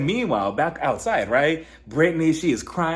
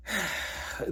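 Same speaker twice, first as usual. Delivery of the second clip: exasperated sigh; 4 semitones higher, 10 dB quieter than usual. Retold or imitated. Retold annoyed Bronwyn before offering hug.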